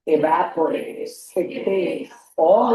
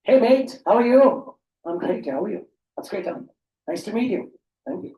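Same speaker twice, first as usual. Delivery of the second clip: mock Australian greeting; much slower than usual. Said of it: "Australian word use करते हैं मेट".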